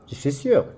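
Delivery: "Je suis sûr" in French, sûr with a rising end. Shown as a demonstration. Teacher giving the adjective example to class. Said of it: "Compared to the adjective".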